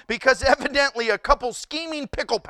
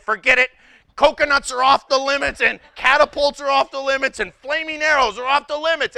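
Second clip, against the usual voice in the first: exasperated crusaders; 4 semitones higher, 5 dB louder than usual. Pretend. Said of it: "they said".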